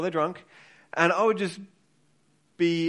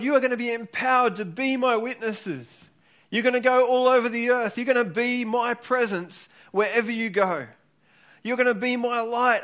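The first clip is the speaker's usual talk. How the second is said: passionate Jesus pleading; 4 semitones higher than usual. Retold or imitated. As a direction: plead with them like Jesus urging his disciples. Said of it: "He, he's saying".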